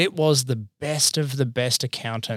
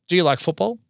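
interviewer voice; 7 semitones higher, 4 dB louder than usual. Retold or imitated. Interviewers voiced in retold story.

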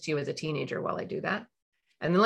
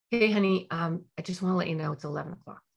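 gentle, softer reminder; calm technique; 3 dB quieter than usual. Shown as a demonstration. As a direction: ease in with a soft reminder. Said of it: "apply the calm technique".

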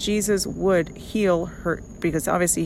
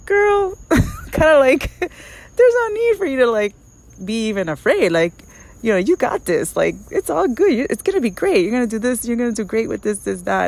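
excited friend; 5 semitones higher, 5 dB louder than usual. Retold or imitated. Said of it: "she was like".

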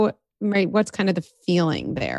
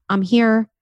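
put-on higher, gentle soothing lines to a child; reassuring parent; 5 semitones higher than usual. Shown as a demonstration. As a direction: comfort a crying child. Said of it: "what you did is even just saying".

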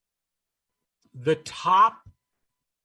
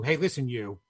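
stern inner voice; faster than usual. Acted. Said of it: "is telling another part of you".

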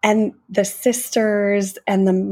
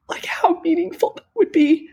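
whisper; 10 semitones higher than usual. Real, not acted. Host marveling at the imagined apology, whispering. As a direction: keep it hushed and moved. Awed comment, still whispered.

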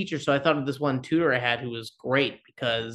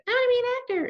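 put-on much higher, a little kid announcing a dream; six-year-old child; faster than usual. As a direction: squeak it out like a small child. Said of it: "when I was six and they said".

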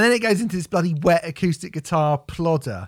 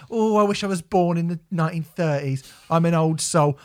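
mocking old soul. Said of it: "you go".

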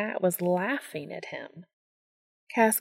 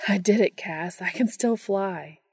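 excited. Acted. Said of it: "he exclaimed".

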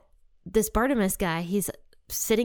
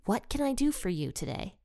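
softly voiced, unhurried offer of help; retold Jesus' question; 3 semitones higher, 4 dB quieter than usual. Jesus asks blind Bartimaeus what he needs, softly retold. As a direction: quote it gently, quieter than the narration. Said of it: "and Jesus says".

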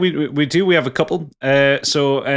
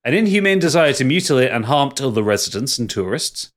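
put-on Yorkshire accent. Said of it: "Your Yorkshire accent's terrible".

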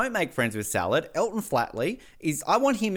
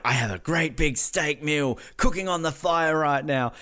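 voicing Justin. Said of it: "the way Justin's like".

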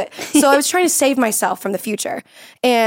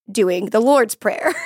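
put-on Australian accent; slower than usual. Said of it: "Here is my Australian accent".

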